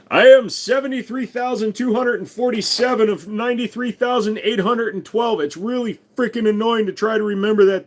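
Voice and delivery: high, even droning drone voice; Borg voice. Pretend. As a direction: speak like a numbered Borg unit. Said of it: "turning wrenches of Borg".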